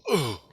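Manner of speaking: short, high grunt of shock; quick imitated gasp; sudden soul jolt. Shown as a demonstration. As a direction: demonstrate a jolt with an "ugh". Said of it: "like that".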